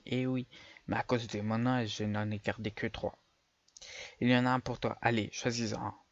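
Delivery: a hint of a kindly old man. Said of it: "je vais faire une voix de vieux".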